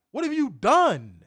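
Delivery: angry rant. Real, not acted. Host confronting the promotion, slow and accusing. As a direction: demand an answer, drawn out. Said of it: "I have not had a rant in a minute".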